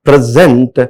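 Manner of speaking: "present" as pre-SENT, the verb; stress on second syllable. Shown as a demonstration. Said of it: "in the place of present".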